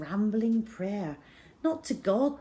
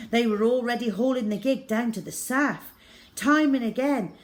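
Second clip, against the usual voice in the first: ordinary delivery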